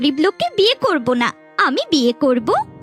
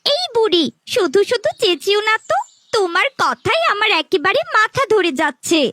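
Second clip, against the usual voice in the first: irritated. Acted. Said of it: "আমার মেয়েটাকে রাগিয়ে দিন".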